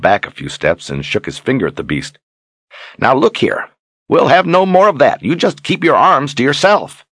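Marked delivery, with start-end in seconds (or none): 3.0-7.1 put-on indignant old wizard, much higher and louder; fussy old wizard. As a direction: scold like a flustered old wizard. Zed the fussy old wizard voiced.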